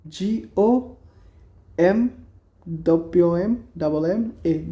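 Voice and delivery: letters said one by one; dictating the spelling slowly. Shown as a demonstration. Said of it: "spelling out".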